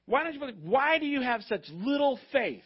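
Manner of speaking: mildly exasperated, imitating a let-down teacher; frustrated. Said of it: "Jesus is obviously frustrated".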